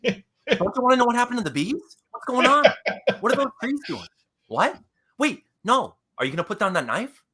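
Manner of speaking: high, baffled, questioning actor voice; Mark Wahlberg impression. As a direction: pitch every line up in hammed-up puzzlement. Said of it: "says every single line the same way".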